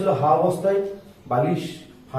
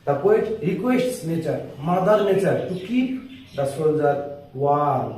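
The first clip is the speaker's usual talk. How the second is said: phrase by phrase with pauses, pitched up on the key words; slow chunked dictation; much slower than usual. Shown as a demonstration. Teacher breaking the line into pieces for students, slow. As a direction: dictate each piece separately. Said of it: "আস্তে আস্তে বলছি".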